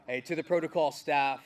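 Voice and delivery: loud, laughing through the words. Real, not acted. Commander thanking protocol staff, laughing loudly. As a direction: still laughing as he calls out.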